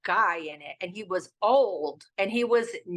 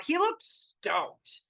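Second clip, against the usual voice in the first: mock stoked voice; 9 semitones higher, much slower than usual. Dog jostling, mock excited voice.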